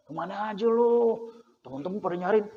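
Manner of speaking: soft, chummy greeting to a regular; warm welcome. Acted. Game-shop attendant greeting a missed child, warm and soft. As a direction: welcome them softly, as if they were missed.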